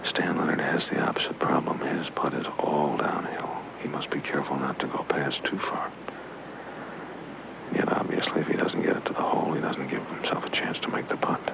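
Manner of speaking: hushed golf commentary whisper; golf commentator. Acted. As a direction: whisper so the golfer can't hear.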